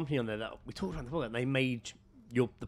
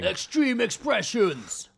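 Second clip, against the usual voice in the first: loud, drawn-out robot doll voice; hammed-up robot, slow and blaring; bad robot voice; 7 semitones higher, 6 dB louder, much slower than usual. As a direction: stretch it out high and loud like a faulty sex robot. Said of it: "They haven't quite got the voice down yet".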